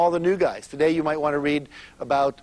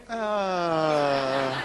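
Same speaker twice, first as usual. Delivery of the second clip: touched sigh. Retold or imitated. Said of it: "women all over the world go".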